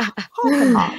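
put-on broad old Boston vowels on "Hoff and Hoff"; old Boston accent. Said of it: "old Boston, it's almost, um, it's, like, part British".

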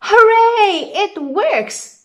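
high, loud happy cheering; excited cheer. Acted. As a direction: cheer like delighted kids. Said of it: "say the children".

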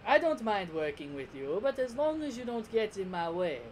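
smiling villain, condescending lilt; put-on dub villain voice; Frieza. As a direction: offer a sly truce. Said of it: "Frieza just smiles and he's just like".

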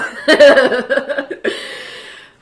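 big joyful laugh; real hearty laugh; loud laugh. Real, not acted. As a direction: laugh out the excitement. Laughs after cheering.

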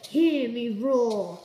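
slow, loud cat growl; mock roar. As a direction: roar it like a tiny lion. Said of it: "I'm a cat".

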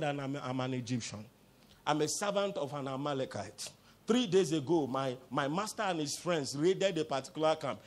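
low, soft subdued account; acted weak servant. Revived Egyptian explains himself to David, low and subdued.

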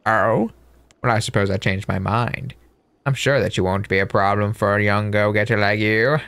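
put-on sly old man.

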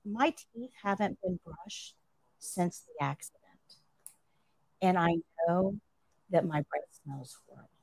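hushed and a little choked, barely wanting to say it; tearful confession. Retold or imitated. Paralyzed patient confessing his shame to the nurse, quiet and tearful. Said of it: "And he's crying".

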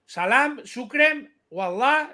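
mock Moroccan words. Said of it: "hablando en marroquí".

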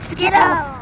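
high, loud mock cry; excited cry. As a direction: call it out with playful excitement. Calls out in a skit.

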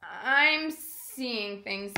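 slow, breathless whisper; a stunned, slow hush. A narrator's reading. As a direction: barely breathe the words in disbelief. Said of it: "he whispered".

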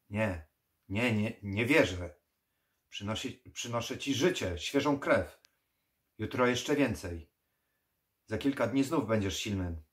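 loud, insistent denial; desperate pleading. Acted. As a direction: refuse to accept it, pushing hard. Dragosani protests desperately.

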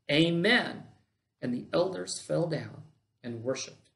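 measured, solemn read-aloud of scripture; formal Bible reading. A narrator's reading. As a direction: read the passage out with deliberate emphasis and pauses. Reads scripture aloud to congregation.

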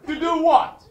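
loud, high shouted disbelief with laughs; mock outrage at the TV. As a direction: rant at the television in fake fury. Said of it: "I really shouted at my television".

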